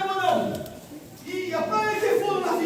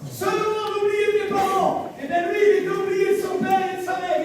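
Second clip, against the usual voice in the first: preaching shout; 2 semitones higher than usual. Real, not acted.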